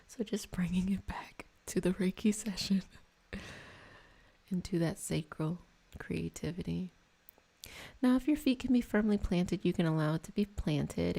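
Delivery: soothing guided-meditation voice; guided Reiki meditation. Acted. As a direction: ease them gently through the energy work. Returns to the Reiki session.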